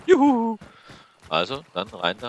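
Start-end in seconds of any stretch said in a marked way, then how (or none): 0.0-0.6 high, loud cheer. Real, not acted. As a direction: shout it out for joy. Cheering after a win.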